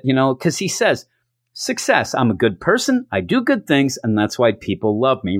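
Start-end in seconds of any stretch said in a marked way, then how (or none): 1.5-5.4 mock self-satisfied. Cable after handing over his gift, mock self-satisfied. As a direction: announce it proudly, dropping at the end. Cable congratulates himself, quote.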